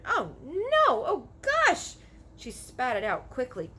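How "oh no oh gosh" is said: disgusted cries. Acted. Sophie tastes the snozcumber.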